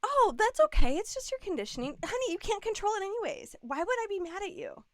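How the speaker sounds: high, quick, softening after the first words; imitated reassurance. Husband soothing his wife after her reaction, imitated reassurance. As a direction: lightly voice a partner's easy, soothing reply.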